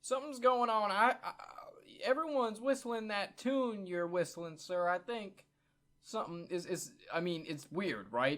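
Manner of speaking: loud urgent call that fades to worry. Acted. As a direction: hold on, everybody, loud then trailing uneasy. Player voices character calling out.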